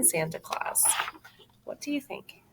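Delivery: soft, breathy, wondering. Real, not acted. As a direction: lean in and ask gently. Soft question to the child.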